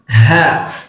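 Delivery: breathy "Ha" for repeating; "Ha" as a teacher's drill; model pronunciation. Shown as a demonstration. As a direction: say "Ha" with an airy h and open vowel. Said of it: "Give it after me".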